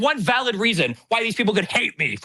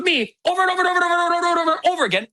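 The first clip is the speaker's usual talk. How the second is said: fast; 6 semitones higher, much faster than usual. Real, not acted. Rapid repetition for emphasis.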